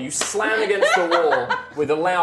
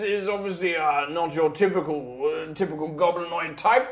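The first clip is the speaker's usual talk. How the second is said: big man voice. Acted. Large man voice talks to Minsk.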